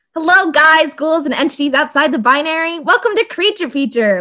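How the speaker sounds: peppy, pip-squeaky, loud, high-pitched, bubbly polite tone. Showing the Creature Feature welcome voice: excited, polite customer-service voice. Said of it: "We get that like, excited, like go lucky, like pip squeaky".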